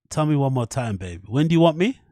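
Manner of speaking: a hammed-up roadman chatting up the voice clip; mock flirting with the British voice. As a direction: lay on the London slang flirting.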